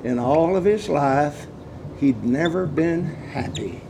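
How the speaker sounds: slowly, softly, letting each word sink in; slow hushed repeat. Shown as a demonstration. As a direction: repeat it gently so it lands. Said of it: "What did he tell me?".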